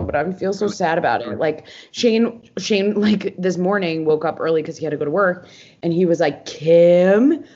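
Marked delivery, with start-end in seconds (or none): 6.5-7.4 imitated loud call from another room. Boyfriend calling her from the bathroom, calling out. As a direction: call the name out loud, drawn up. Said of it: "like, from the bathroom".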